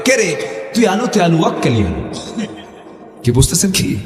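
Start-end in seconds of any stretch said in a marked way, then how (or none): 0.1-2.1 North Bengal dialect. Retold or imitated. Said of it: "এক বাক্য বললাম".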